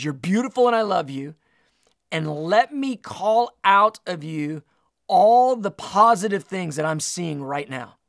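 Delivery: insistent, loving declaration with swelling volume; preacher voicing God's delight; emphatic affirmation. Voicing the Lord's affirming words.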